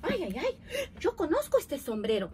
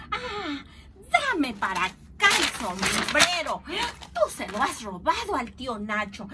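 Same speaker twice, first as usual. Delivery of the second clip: reclamo enojado; 2 semitones higher, 4 dB louder than usual. Acted. Los muchachos le reclaman al viejo.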